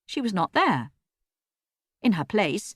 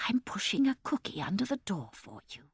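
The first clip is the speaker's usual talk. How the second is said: soft hushed voice; whispering; 9 dB quieter than usual. A narrator's reading. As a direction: keep it hushed through the door. Granny whispering through door.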